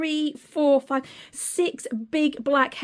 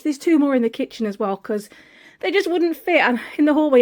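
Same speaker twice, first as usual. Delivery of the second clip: breathless after hauling bags; out of breath, catching air between words. Real, not acted. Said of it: "and I'm out of breath now".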